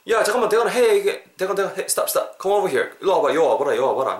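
high, insistent call to a friend; calling someone over. Acted. Teacher acting out stopping Daegeon, urgent high call.

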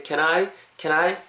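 "can I" run together as one smooth word; natural linked pronunciation. Shown as a demonstration. Teacher models the phrase for learners, "can I" linked naturally. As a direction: link "can I" naturally, as "kenai". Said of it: "자연스럽게 발음하시면 좋을 것 같아요".

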